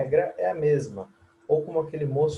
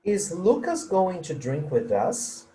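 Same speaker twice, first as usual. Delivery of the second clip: slow, Lucas raised, voice rising at the end; rising question tune; 4 semitones higher than usual. Shown as a demonstration. Teacher models the question so students hear the rise. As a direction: ask it slowly with a climbing tune. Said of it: "Entonação sobe".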